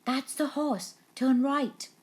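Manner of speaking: whisper-plot like a bumbling crook; Len the thief. A narrator's reading. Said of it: "and Len said".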